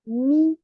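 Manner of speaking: "mi." said slowly and clearly with an i vowel; teaching "mi." with a kasra vowel; syllable with kasra. Shown as a demonstration. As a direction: demonstrate "mi." carefully for students. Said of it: "je prononcerai cette lettre".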